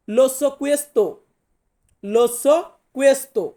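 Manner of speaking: very slow, word by word, "Lo so questo" with each word drawn out and the stress on "so"; slow model sentence. Shown as a demonstration. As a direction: say "Lo so questo" very slowly, the way a teacher models it for students. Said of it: "তাহলে আমাকে বলতে হবে".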